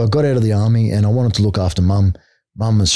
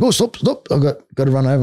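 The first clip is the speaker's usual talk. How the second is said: mock whiny plea, pitched way up, then settling; whiny high stop; 5 semitones higher than usual. Mimicking the opponent escaping the armbar, high mock whine. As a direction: whine it like a quitter begging off. Coach quits again when caught.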